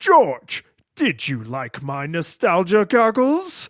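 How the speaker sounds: slow, drawn-out character voice with big swoops. Asking the other speaker a question in my best Cam Clark impression. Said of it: "in my best Clark Campbell impression".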